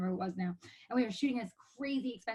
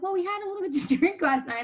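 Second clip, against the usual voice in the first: higher, louder assistant's voice with a chuckle; imitated assistant; 9 semitones higher, 6 dB louder than usual. Assistant explaining away her boss's nausea, imitated. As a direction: lightly mimic the assistant, pitched up. Assistant's reply acted out in retelling.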